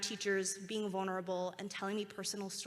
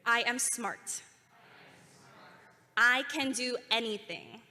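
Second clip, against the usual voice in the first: loud and proud, a call to the crowd; confident shout; loud confident affirmation; 2 semitones higher, 6 dB louder than usual. Shown as a demonstration. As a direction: give it firmly so they echo. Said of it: "your loudest, most confident voice".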